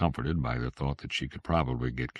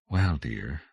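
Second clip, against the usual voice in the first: placating. Acted. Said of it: "said placatingly".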